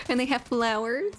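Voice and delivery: high-pitched, half-joking gush; gushing over cuteness. Pretend. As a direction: coo as if overcome by how pretty it is. Mock-emotional gushing over Midsummer dances.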